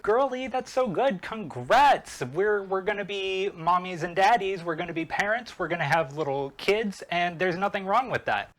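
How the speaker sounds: high, gushing mock excitement; gushing congratulations. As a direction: imitate an overjoyed friend congratulating. Acting Anakin's delighted congratulations.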